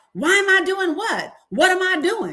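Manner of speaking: screaming, pitched very high. Retelling an argument that someone describes as screaming back: imitating someone screaming back. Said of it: "and I was screaming back".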